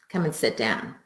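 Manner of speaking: low, soft, stern command; stern pointing order. Shown as a demonstration. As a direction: order them to sit with a pointed finger. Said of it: "no one likes the finger pointing".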